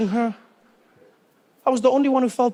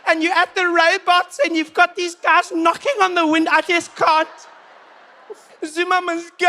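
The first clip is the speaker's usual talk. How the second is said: much higher, overwhelmed whine; fragile white woman; 8 semitones higher than usual. Retold or imitated. White women back in the day when things go wrong, high fragile whine. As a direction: sound like you're about to break.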